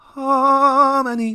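sweet, nice tone, very high and drawn out. Video narrator retakes the coin's name to sound right, saying it nicely. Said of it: "I need to sound a bit nice when I say it".

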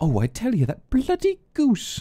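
put-on British accent, very high and swooping. Imagining what the game's lady would say, British accent. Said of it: "I can just hear her British accent now".

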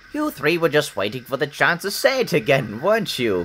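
self-satisfied needling. An engine speaks to three big engines at the sheds, smug. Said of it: "Said Edward smugly".

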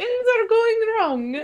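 very high put-on accent, possibly Irish. Speaker repeating the other speaker's line in an accent, possibly Irish. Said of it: "Is that Irish?".

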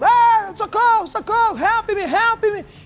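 put-on woman's screams. Retelling how a woman reacted to a robbery: imitating a woman screaming for help. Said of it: "ela começou a gritar no meio da rua".

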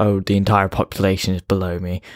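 ordinary talk

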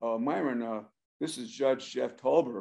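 soft, gentle, quiet delivery. Speaker retells a phone call from a judge, imitating Jeff Tolber. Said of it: "I'm trying to imitate this man".

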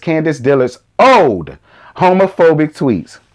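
put-on the word "old" leaned on hard. Reading a headline aloud, stress on old. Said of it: "I'm gonna tell you why I put the emphasis on old".

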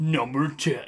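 deep, grand, epic dramatic delivery. Recalling voicing a script line: epic, deep voice. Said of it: "it just felt like this, like, epic, deep".

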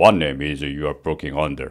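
deep, soft, low bass-register voice. Practicing an English question in different ways, here in a low, deep voice. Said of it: "저음으로".

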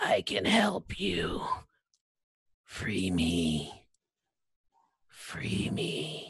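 high, gurgling, gargling voice. Narrator voicing a creature's telepathic plea to the players, gargling telepathic voice. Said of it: "you hear in your head a gargling voice telepathically communicating".

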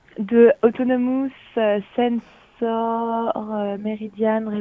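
English accent with slow English pronunciation.

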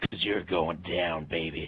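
very low, deep put-on macho tough-guy bravado. Taunting Intermill while playing together, macho voice. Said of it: "That was my macho voice".

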